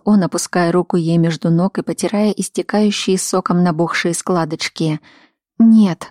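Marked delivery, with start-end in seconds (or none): 5.6-6.1 louder, higher sobbing cry; a sobbing, pleading outcry; sobbed no. Acted. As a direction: break into a sob on the word. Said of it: "всхлипнула Рита".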